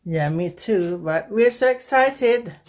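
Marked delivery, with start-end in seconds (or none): 1.3-2.6 high, loud and drawn-out cheer; excited yelling. Real, not acted. Mother answering a tired child at dawn, excited yelling. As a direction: yell it slowly with real excitement. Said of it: "Why are you yelling?".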